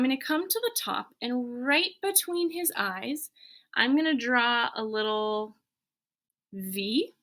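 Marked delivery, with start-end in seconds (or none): none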